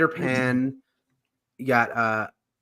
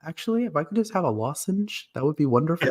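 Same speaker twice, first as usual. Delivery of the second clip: polite metalhead; 3 semitones higher, 4 dB quieter than usual. Retold or imitated. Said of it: "They, um".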